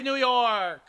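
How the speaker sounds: big announcer finish, pitch falling away; goal call sign-off. Acted. Commentator capping the goal call for viewers, drawn-out announcer finish. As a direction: land the team name to close the call.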